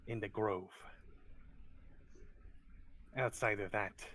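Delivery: lightly voiced wary kobold, deliberate phrasing; a touch of suspicious cave creature. Kobold tells the adventurer about goblin rivals, wary.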